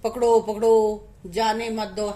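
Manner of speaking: lightly acted parrot cry, loud start dropping off; Fugga. Teacher contrasts the rude parrot, lightly acted cry. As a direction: mimic the parrot calling for a capture. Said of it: "और फुग्गा".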